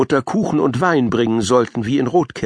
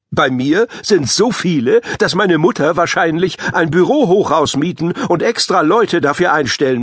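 whiny boast; 4 semitones higher than usual. Acted. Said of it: "quengelte Paavo".

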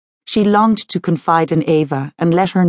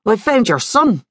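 higher, bright-eyed joy as he breaks the news; joyous; 5 semitones higher than usual. Acted. Investigator phones the mother with good news, joyous. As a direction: sound thrilled to have found him. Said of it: "said a joyous Kevin".

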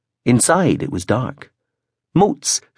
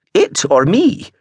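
sharp and higher, louder; 9 semitones higher, 4 dB louder, slower than usual. A narrator's reading. Gran cutting in at her grandson, sharply. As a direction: snap the question back. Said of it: "she said sharply".

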